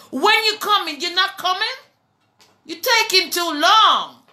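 high, pressing cry; urgent plea. Retold or imitated. Preacher voicing his daily prayer to God, high urgent pleading. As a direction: call out to God, begging him to hurry.

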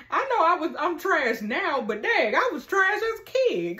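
excited. Real, not acted. Excited self-mocking after laughing.

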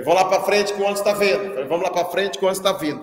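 calling class. Retold or imitated. Calling pupils to bus.

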